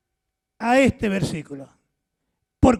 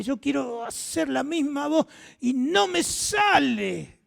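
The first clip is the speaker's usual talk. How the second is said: mock frustrated outcry; 6 semitones higher than usual. Frustrated singer can't sing.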